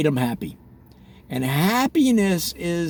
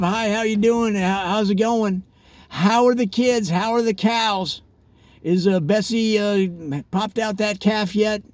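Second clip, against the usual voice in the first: high, chummy folksy hello; a hint of a neighbour chatting over the fence; lightly played cheery farm-town small talk; friendly small-town greeting; 5 semitones higher than usual. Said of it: "Like that".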